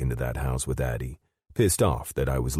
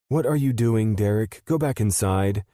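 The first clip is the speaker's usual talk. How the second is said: higher, louder sharp order; 9 semitones higher, 5 dB louder than usual. Acted. Avery ordering Derek back into the house, sharp raised command. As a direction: send him back inside with a sharp command. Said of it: "Avery ordered him".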